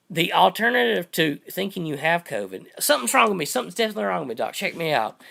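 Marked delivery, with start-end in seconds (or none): 2.8-5.2 mild mock panic, higher at the start; a touch of hypochondriac alarm; worried patient. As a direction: plead lightly like an anxious patient. Acting a worried patient to doctor.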